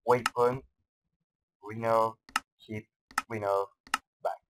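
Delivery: French-accented English words; accent anglais approximatif; mock English accent. Shown as a demonstration. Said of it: "mon magnifique accent anglais".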